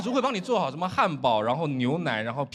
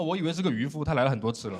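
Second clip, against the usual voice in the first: lightly acted indifference, trailing lower; numb, jaded; 3 semitones lower than usual. Second mate answers intern's excited sighting, jaded. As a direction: brush off the sighting as routine. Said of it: "他对一切都很麻木".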